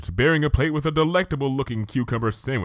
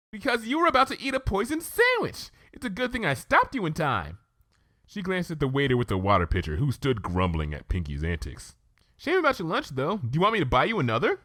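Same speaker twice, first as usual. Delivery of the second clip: higher, bouncy pony; chirpy and cheerful; Pinkie, bubbly; 6 semitones higher than usual. Acted. Pinkie character voice.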